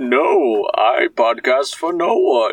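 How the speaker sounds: muffled villain voice with big, swooping pitch swings. Answering the question just put to Bane, in a Bane voice. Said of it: "Bane, do you want to start a podcast together?".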